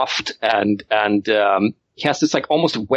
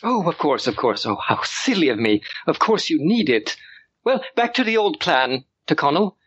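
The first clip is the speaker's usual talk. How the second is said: put-on high, breathless boy giving orders; excited child lord; 4 semitones higher than usual. Young lord calls his butler, high and eager. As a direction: demand it like a thrilled little aristocrat.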